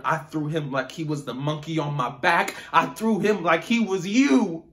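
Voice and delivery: furious outburst. Acted. Rage at father bursts out.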